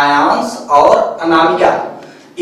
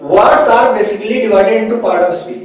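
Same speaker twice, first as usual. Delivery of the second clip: slow dictation; much slower than usual. Shown as a demonstration. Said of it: "देखते हैं types of word".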